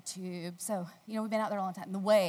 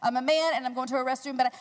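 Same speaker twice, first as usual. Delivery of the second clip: mock panic; 3 semitones higher, 6 dB louder than usual. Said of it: "He said".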